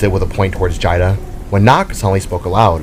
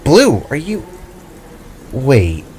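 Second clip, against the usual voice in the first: a higher, lighter voice for Jada; Jada's voice; 4 semitones higher, slower than usual. Acted. Jada questions Void on the ledge, lightly voiced and higher. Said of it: "Jada questioned".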